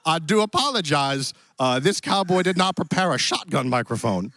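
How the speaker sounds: put-on cowboy accent. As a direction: play a genial Western cowboy host. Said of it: "Is your accent supposed to be".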